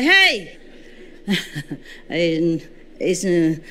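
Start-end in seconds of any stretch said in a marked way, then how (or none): 0.0-0.6 sudden loud angry yell; angry shout. Retold or imitated. Speaker reenacting scolding, sharp loud shout. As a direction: bark it out sharply at the enemy. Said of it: "not as loud as this".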